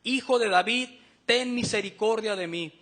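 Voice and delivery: súplica en voz fuerte y firme; clamor más intenso. Retold or imitated. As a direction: imita un ruego insistente, con empuje. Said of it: "pero él clamaba mucho más". (clamor fuerte, sin llegar al grito)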